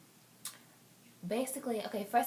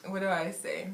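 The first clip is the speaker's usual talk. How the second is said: lightly put-on African accent; 12 dB louder than usual. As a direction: tell the party story in an African accent. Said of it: "I'm gonna go to African".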